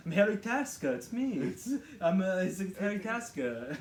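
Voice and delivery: lightly mocked Austrian accent; playful Austrian action-star introduction; Arnold Schwarzenegger. Film fan spoofing Arnold as Harry Tasker, Austrian accent. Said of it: "it's never like".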